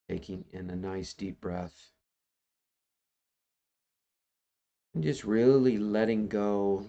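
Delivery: unhurried guiding voice with long pauses; guided meditation. Acted. Teacher asks online group to let go and just be here, guided meditation. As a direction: lead them gently into letting go, phrase by phrase.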